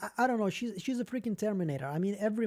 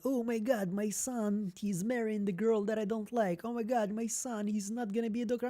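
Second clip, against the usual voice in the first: higher, fussy imitation of a worried parent; mock fretting parent; 4 semitones higher than usual. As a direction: fret dramatically like an overinvested mom.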